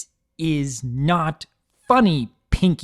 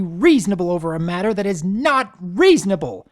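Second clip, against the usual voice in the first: loud, high, biting sarcasm; mocking him while boiling over; sarcastic fury; 8 semitones higher, 7 dB louder than usual. Twilight's sarcastic furious tirade.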